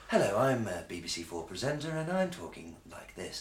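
mock BBC received-pronunciation voice; homogenised BBC presenter. Mocking Radio Four presenters who all sound alike, homogenised presenter voice. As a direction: put on a standard radio presenter's accent. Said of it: "Every presenter has the same homogenised".

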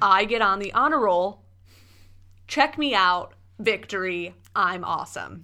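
loud mock victory cheer; self-congratulating cheer. Co-host demonstrating how to congratulate yourself, self-congratulating cheer. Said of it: "congratulate yourself or cheer".

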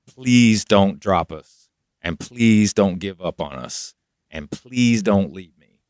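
begging him not to leave, voice dropping; pleading. Retold or imitated. Begging manager not to drop band.

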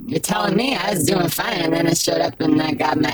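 put-on whiny moth boy. Moth boy whining, hurt.

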